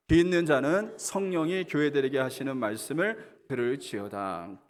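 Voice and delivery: steady, measured reading of the verse, 귀 at the start; scripture read aloud. Shown as a demonstration. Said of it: "읽어보겠습니다. 시작". (성경 구절 낭독)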